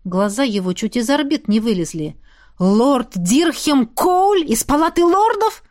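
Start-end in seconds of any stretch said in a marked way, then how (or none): 2.6-5.6 higher, louder, slow incredulous question; outraged by the name; enraged disbelief. A narrator's reading. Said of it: "Равьен взбеленился". (возмущённое изумление)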